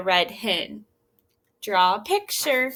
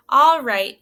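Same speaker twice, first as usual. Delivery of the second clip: sighing; 9 dB louder than usual. Acted. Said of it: "she sighed".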